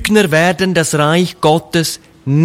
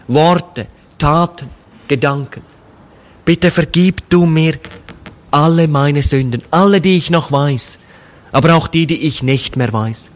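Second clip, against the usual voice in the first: humble prayer. Acted. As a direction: pray it simply and humbly, as a confession. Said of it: "in einem ganz einfachen Gebet sagt". (leises, demütiges Gebet eines Sünders)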